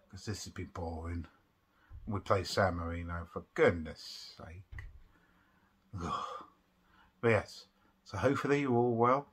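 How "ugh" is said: low, soft "ugh" of boredom; bored groan. Real, not acted. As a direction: let out a quiet, fed-up groan. Bored by international break.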